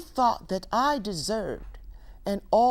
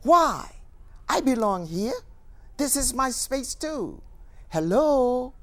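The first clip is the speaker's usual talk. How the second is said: mock-indignant, loud retort; screaming back; 3 dB louder than usual. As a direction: fire back defiantly as the intruder. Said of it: "she screams back at me".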